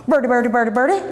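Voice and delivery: put-on high, sing-song baby coaxing; Mama cooing baby talk at the child. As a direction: coo at the child like to a bird.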